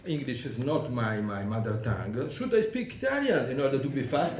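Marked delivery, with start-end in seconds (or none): 2.3-4.4 a fast question with a laugh running through it; joking laugh. Real, not acted. Speaker jokes to the panel about speaking Italian, laughing. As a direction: let the laugh break into the joke.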